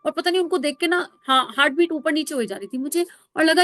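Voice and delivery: ordinary delivery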